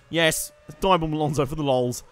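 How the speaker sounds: firm yes to his own idea; decisive self-answer. Pretend. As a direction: commit to the mischief in a fuller voice.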